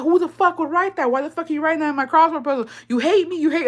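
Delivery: mom yelling, high and fast; hammed-up mom telling her off; angry mom. Mom scolding the sister over the crossword puzzle, high fast mock anger. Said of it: "then she's like".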